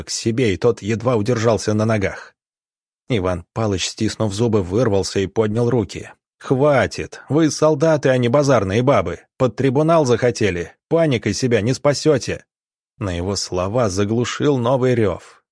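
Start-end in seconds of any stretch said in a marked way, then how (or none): 6.4-12.4 stern rebuke. Acted. Doctor rebukes rioting wounded soldiers.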